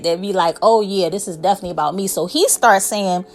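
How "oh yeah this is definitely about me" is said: arrogant. Retold or imitated. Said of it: "Y'all know people like that".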